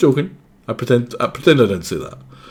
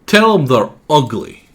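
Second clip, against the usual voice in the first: higher, louder scrappy tough-talking critter; high character voice; 8 semitones higher, 5 dB louder than usual. Acted. A tough mouse offering to rough up the culprit, high and scrappy. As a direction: squeak out threats like a tiny brawler. Voicing game character dialogue.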